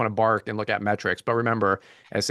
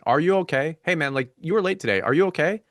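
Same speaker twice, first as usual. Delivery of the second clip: higher-pitched, caring check-in; disarming concern; 5 semitones higher than usual. Acted. Boss checking on a late worker, disarming and concerned. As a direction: ask it openly, lifting the pitch to disarm. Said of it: "talk about a disarming conversation".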